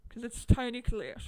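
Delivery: put-on Australian vowels; Australian accent. Insisting to a co-host who stars, in an Australian accent. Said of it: "not in an Australian accent".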